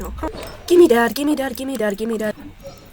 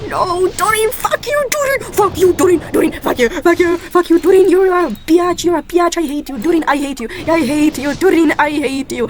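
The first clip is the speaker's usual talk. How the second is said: angry; 4 dB louder than usual. Real, not acted. Gacha loss, cursing at character.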